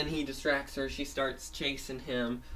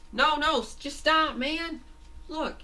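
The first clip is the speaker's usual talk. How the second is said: very high, loud cartoon pleading; insist, pitched right up, easing in volume; urgent insisting; 6 dB louder than usual. Fango urges fleeing Fangy to stop, urgent insisting.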